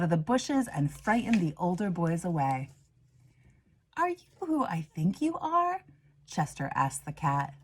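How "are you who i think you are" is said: amazed question. Acted. Chester asks the fierce cat.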